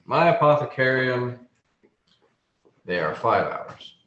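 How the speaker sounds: lightly voiced, proud gnome apothecary; measured gnome merchant with deliberate pauses; gnome shopkeeper. Gnome quotes his price to a buyer, lightly voiced merchant.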